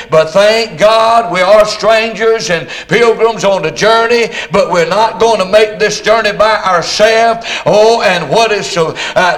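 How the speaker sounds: intoned, steady preacher's prayer; public prayer. Real, not acted. Preacher thanking the Lord before preaching, intoned prayer. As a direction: pray aloud in a sustained, rolling cadence.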